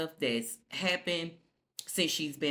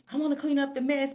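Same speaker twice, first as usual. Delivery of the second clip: high whiny Sally voice; 9 semitones higher, faster than usual. Retold or imitated. Voicing Sally's plea.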